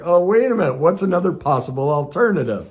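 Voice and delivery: high, bright catch of realization; sudden realization. Retold or imitated. Catching his own spiral, surprised realization. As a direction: stop yourself, realizing. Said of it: "I'm like".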